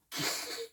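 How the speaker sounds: small, high acted giggle; chipmunk's giggle. A narrator's reading. Storyteller as Chipmunk starting to laugh at Bear, giggling. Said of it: "Chipmunk started to giggle".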